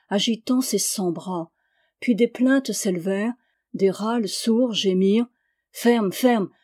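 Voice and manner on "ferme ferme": 1 commanding call. Acted. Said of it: "commanda Bruno".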